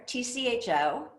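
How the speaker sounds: "T C H O" said letter by letter; spelled out. Shown as a demonstration. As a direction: read "T C H O" as four separate letter names. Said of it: "two pronunciations that are popular".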